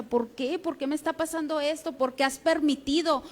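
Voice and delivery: soft, quiet mock lament; half-voiced plea to God; retold lament. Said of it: "Él se lamentaba y él decía".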